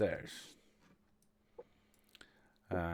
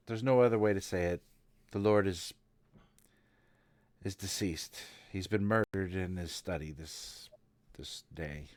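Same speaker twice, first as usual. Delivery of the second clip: reluctant bad news; 4 semitones lower than usual. Servant breaking the lord's death to his lady, understated and grave. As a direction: break it haltingly, voice dropping away.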